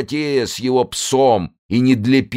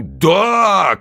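higher shouted yes; chorus shout; 6 semitones higher, 4 dB louder than usual. Acted. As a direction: yell yes as one. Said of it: "крикнули крестоносцы любви".

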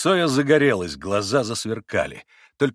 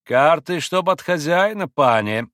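louder, firm demand; insistent and serious; 5 semitones higher, 6 dB louder, slower than usual. A narrator's reading. Little Pole sets terms to Mitya, insistent and serious. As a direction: state the condition firmly. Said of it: "настойчиво и серьёзно произнёс маленький пан".

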